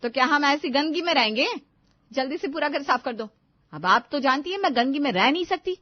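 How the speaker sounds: loud, high and demanding; bossy demand. Acted. Daughter-in-law loudly bossing her mother-in-law about cleaning, high and demanding.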